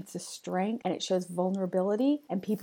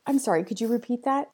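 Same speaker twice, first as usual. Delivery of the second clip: apologetic ask; 4 semitones higher, faster than usual. Shown as a demonstration. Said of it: "Or how about".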